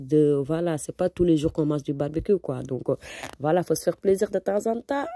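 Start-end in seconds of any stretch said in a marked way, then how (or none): 3.4-5.1 laughing while talking. Real, not acted. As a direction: talk through a laugh.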